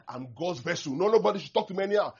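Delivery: building to a loud, fast mock outburst; mock indignant shout. Preacher mocking a self-important pastor, indignant shout.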